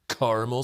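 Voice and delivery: caramel said pointedly as "CAR-mul"; corrected caramel pronunciation. Retold or imitated. Brewer correcting his order, caramel as CAR-mul. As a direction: quote caramel in two syllables, CAR-mul. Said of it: "And he was like".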